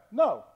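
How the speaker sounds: short NO with a sharp falling tune; inflected no. Shown as a demonstration. Pastor showing tones of no, short falling NO. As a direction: say NO quickly, pitch dropping steeply. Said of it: "tone and inflection you say no".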